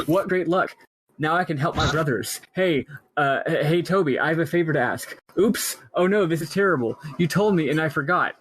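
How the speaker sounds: lightly voiced quirky bandit; funny scattered voice. Podcast host reading bandit Koyu's lines, lightly scattered. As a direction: read it bouncy and scattered, not far off own voice. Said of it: "speaks in a kind of funny, scattered way".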